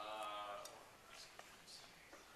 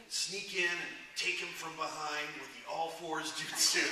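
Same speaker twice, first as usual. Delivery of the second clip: laughing through the line; 6 semitones higher, slower than usual. Retold or imitated. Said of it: "It's like".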